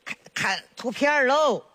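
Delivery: put-on chatty old granny voice, fond and teasing; village grandma. Grandma to her neighbour and baby granddaughter, fondly teasing. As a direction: play a proud grandma showing off her grandchild.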